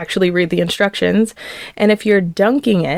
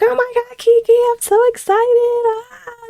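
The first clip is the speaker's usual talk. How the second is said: much higher, squealing delight; imitating excited screaming. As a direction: squeal it like a friend who just got the news. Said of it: "she was, like, screaming".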